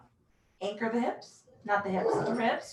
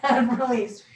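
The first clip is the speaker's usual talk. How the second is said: laughing; 3 dB louder than usual. Real, not acted. Laughs at own breathing mistake.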